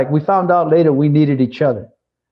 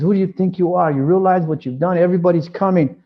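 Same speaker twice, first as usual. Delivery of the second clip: raised pitch, scolding manager; angry boss scolding janitor, pitched up; mock angry boss; 5 semitones higher than usual. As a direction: play the boss chewing him out, higher. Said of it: "he cussed me out".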